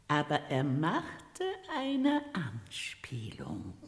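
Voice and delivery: a hushed conspiratorial whisper; secretive whisper. Acted. Lady lowers voice, secretive.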